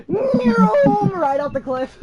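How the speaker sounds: high, long-drawn zoom into the words; car meme imitation. Acting out a car meme, mock zooming. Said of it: "those car memes where it's just like".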